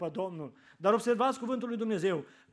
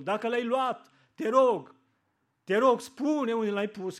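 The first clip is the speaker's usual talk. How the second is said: louder, urgent begging; 2 semitones higher, 4 dB louder, slower than usual. Retold or imitated. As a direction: plead desperately for him. Mary begging for Jesus' body. (implorare puternică)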